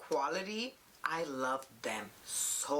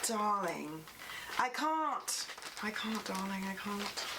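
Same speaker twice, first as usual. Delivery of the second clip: overcome diva; 3 semitones higher than usual. Pretend. Overwhelmed by a palette.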